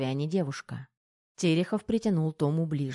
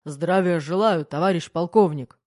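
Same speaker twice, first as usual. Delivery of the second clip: barked greeting; 7 dB louder than usual. A narrator's reading. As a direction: bark it like on parade. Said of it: "гаркнул майор".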